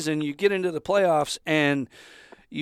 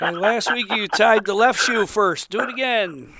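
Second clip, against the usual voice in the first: mock teammate reminder; 5 semitones higher, 4 dB louder than usual. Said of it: "retold teammate reminder".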